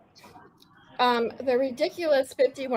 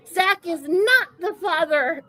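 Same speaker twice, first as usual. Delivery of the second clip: Maury Povich; 4 semitones higher than usual. Retold or imitated. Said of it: "in Maury Povich's voice".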